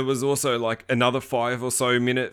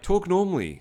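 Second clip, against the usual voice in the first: exasperated; 8 semitones higher than usual. Retold or imitated. Viewer scolding bad movie actors: exasperated. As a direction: tell the actors off in disbelief. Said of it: "you're like".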